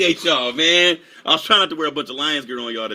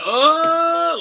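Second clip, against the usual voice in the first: surprised oh; 8 dB louder than usual. Retold or imitated. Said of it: "I'm like".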